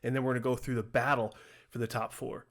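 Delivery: breathless, rushing the words; winded and out of breath. Real, not acted. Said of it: "you can tell I'm out of breath".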